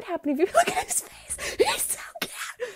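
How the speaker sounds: squeaky laughing gush; gushing coo. Real, not acted. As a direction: melt over the cat. Gushing over cat's face.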